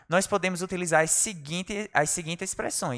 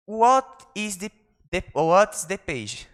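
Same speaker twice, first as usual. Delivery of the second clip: fumbled model take; 2 semitones higher, 4 dB louder, slower than usual. Shown as a demonstration. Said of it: "Sorry, perdão, vamos lá de novo".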